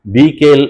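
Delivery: "বিকেল" slowly as "bi-kel"; syllable split. Shown as a demonstration. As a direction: lengthen the "bi" of "বিকেল" before "kel". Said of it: "উচ্চারণটা আমাকে কানে শুনতে হবে".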